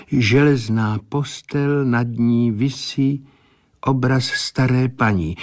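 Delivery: a hint of a medium reporting what she sees; measured, trance-like clairvoyant reading; entranced seer. Seer's vision continues.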